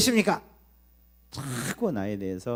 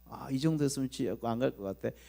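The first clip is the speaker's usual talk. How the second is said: lazy complacent believer; 2 semitones lower, 4 dB quieter than usual. Retold or imitated. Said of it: "이렇게 해요".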